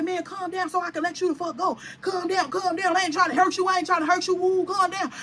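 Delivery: lightly voiced man trying to calm someone; repetitive, half-chanted mimicry of pleading; imitated peacemaker. Retells man restraining and calming her.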